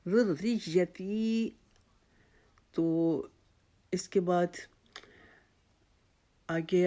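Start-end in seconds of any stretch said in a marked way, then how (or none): 0.1-1.5 ذُرِّيَّتِي slow, the ر with zer blended into the doubled ي; recitation. Shown as a demonstration. Teacher reciting ذُرِّيَّتِي slowly. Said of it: "یا کی شد کے ساتھ ملا کے پڑھنا".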